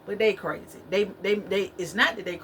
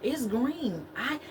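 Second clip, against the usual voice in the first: slow, higher mock insistence, stretching green; insistent liar; 5 semitones higher, slower than usual. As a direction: lightly mimic someone insisting on a lie. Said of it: "They say".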